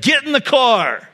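a hint of a stern mother's order; retelling mom's stern command, only a touch stern; mild stern mom. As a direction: quote mom's curt order, lightly stern. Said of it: "with a very stern voice".

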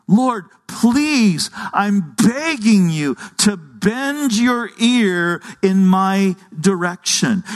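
slow, drawn-out plea; beg, leaning hard on the key words; begging. Acted. Preacher voices David begging God to listen, pleading. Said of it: "it's literally begging God".

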